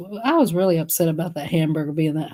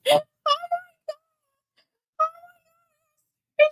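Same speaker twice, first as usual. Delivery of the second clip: laughing; slower than usual. Real, not acted. Laughing fit after story.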